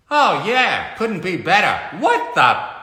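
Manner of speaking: high loud strained sarcasm; crushed cop answering sarcastically, loud and high; sarcastic squashed cop. Acted. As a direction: grumble from under a heavy cop. Squashed Bullock complaining.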